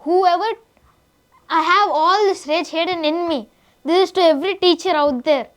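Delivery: slow, deliberate declaration of hidden rage; mock rage speech. Boy acting out his anger at teachers, slow and pointed. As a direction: drag each word out like a simmering threat. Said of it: "కొట్టేలా ఉన్నాడు".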